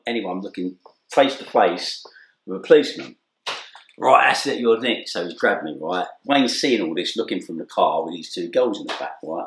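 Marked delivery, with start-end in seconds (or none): 4.0-5.1 stern arrest. Retold or imitated. Policeman arresting him.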